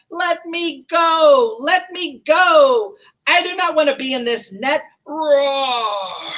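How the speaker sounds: loud, high, protesting roar; trapped lion. Acted. Lion caught in the poachers' net, roaring in protest. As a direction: bellow it out as a captive lion. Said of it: "said the lion".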